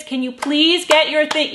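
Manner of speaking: loud, high, pushy nagging demo; aggressive parental yelling. Shown as a demonstration. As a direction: act out yelling at the kids to hurry. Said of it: "That energy of, like, aggression".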